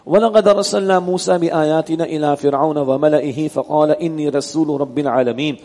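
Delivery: measured, chanted Arabic recitation; Quran recitation. Acted. Teacher recites the verse to his class, in measured chant. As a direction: intone the verse as in prayer.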